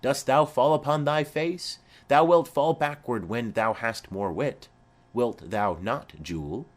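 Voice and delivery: a hint of a playful father joking with a toddler; merry husband. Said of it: "quoth he".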